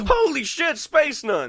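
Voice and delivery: squeaky high-pitched amazement; high goofy voice. Pretend. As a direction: gawk upward in a squeaky voice. Riffing on the vendor bit.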